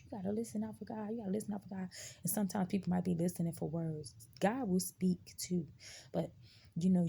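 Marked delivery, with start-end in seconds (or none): 0.0-1.9 mock preachy saying. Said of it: "we hear people say so much".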